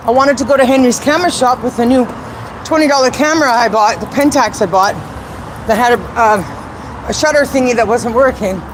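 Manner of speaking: breathless from climbing stairs; winded, talking while climbing; out of breath. Real, not acted. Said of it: "Sorry, I'm climbing stairs with asthma while talking".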